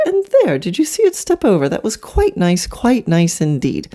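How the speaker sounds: hammed-up British riding champion; put-on British accent. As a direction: play a very proper British expert, swooping up in pitch on key moments. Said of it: "you put on an accent".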